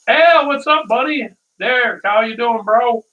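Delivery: high, loud bro hello; mock buddy-buddy greeting; dude greeting. Commercial guys greeting each other, high bro hello.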